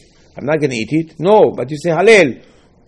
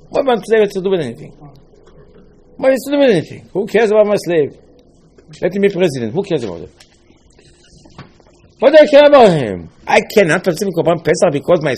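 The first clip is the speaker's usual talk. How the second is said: higher and louder, outraged questions; indignant owner; 5 semitones higher, 4 dB louder, faster than usual. Acted. Slave owner protesting to the rabbi, loud and outraged. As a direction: protest like a man who finds the rule absurd.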